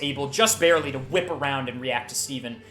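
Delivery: dramatic, driving combat narration; game master action narration. A narrator's reading. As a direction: build the attack with punchy force. Game master narrates sudden attack.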